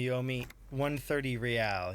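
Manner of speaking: put-on slow, mild aristocratic accent on "real"; a hint of a mawkish upper-class accent. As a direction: lightly roll the R of "real" like a snooty aristocrat. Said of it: "He pronounces the R with a mawkish, aristocratic accent".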